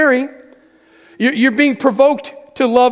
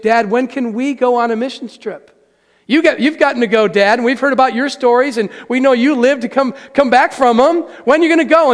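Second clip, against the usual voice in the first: imitating eager kids, climbing higher and louder; 3 semitones higher, 4 dB louder than usual. Children pleading with their dad to join a missions trip, eager and rising. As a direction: build the kids' begging as it goes.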